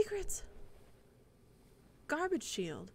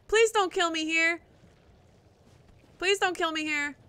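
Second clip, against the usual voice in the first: pleading; 6 semitones higher, 9 dB louder than usual. Real, not acted. Begging enemy during a fight.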